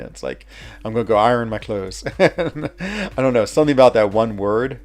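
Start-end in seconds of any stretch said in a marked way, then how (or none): 0.8-2.0 light West Virginia twang on "iron"; West Virginia accent. Shown as a demonstration. Showing how the word betrays home, West Virginia twang. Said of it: "really West Virginia".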